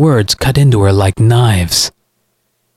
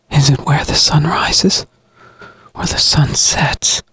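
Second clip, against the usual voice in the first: wondering aloud; 6 semitones higher than usual. Acted. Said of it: "she wondered".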